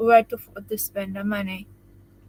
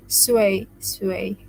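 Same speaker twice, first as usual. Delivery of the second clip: "Sway, sway" repeated through a laugh; 3 semitones lower than usual. Shown as a demonstration. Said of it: "they said in Arabic".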